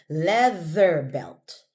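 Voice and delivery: "leather belt" slow, voiced th with tongue between teeth; careful th. Shown as a demonstration. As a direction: model "leather belt" slowly for the student. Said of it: "Oh, the".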